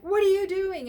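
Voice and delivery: sharp, loud, high yell at the donkey; angry shout. Acted. Balaam yelling at his stubborn donkey, angry shout. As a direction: bark it out in a rage.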